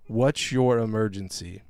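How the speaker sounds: slow operator phrasing; mock dispatcher. Repeating the 911 operator line, slow. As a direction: drawl it like a dispatcher. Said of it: "That's a clue you called the wrong fucking number".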